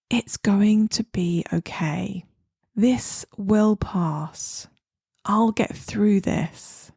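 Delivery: slow, reassuring self-talk with pauses between phrases; warm, friendly tone. Shown as a demonstration. Coach models kind words for someone suffering, warm and friendly. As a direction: say it slowly, as if to a friend in need. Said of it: "say these statements in a warm, friendly tone".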